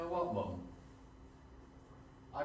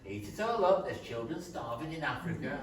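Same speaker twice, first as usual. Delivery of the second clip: imitating mum; 3 semitones higher than usual. Son mimics mum nagging at dinner: mock scold. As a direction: nag like a scolding mum, lightly done. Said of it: "you'd say".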